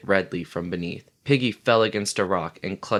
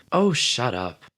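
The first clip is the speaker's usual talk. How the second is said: savage snap; 4 semitones higher, 3 dB louder than usual. Acted. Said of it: "The knowledge and the awe made him savage".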